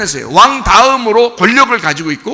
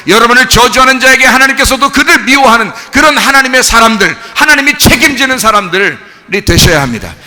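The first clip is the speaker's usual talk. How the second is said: raised, emphatic pulpit exhortation; forceful preaching; 3 semitones higher, 4 dB louder than usual. Real, not acted. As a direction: charge the congregation with conviction. Preacher exhorts congregation at full force. (힘차게 외치는 설교 말투)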